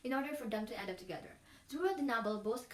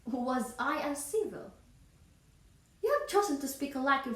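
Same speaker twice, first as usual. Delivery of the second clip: indignant, accusing monologue with rising pitch and force; Elizabeth Bennet; 3 semitones higher than usual. Acted. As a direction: confront the suitor with each charge, stagey outrage. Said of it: "She brings two, um, accusation".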